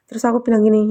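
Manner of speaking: ordinary talk, nothing marked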